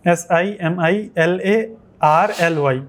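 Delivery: slow spelling, then "similarly"; spelling slowly. Shown as a demonstration. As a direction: spell each letter, then say the word. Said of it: "इसको बोलना है similarly". (धीरे spelling फिर शब्द)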